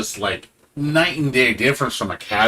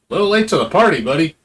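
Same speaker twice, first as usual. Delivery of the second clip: higher, mocking put-down; sarcastic retort; 5 semitones higher, 4 dB louder, much faster than usual. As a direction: toss it off with sarcastic glee. His own retort to them.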